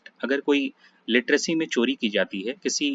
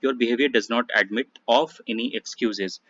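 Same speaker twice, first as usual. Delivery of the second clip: slow dictation; much slower than usual. Shown as a demonstration. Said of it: "reads corrected sentence slowly".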